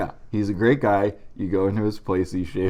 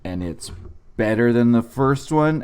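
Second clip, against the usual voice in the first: mock ad read. Fake sponsor ad read.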